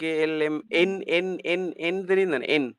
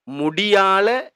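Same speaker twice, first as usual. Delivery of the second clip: முடியால drawn out slowly; slow model word; 2 semitones higher, 3 dB louder, much slower than usual. Shown as a demonstration. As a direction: stretch முடியால for the class. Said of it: "slow model word". (முடியால மெதுவாக நீட்டி)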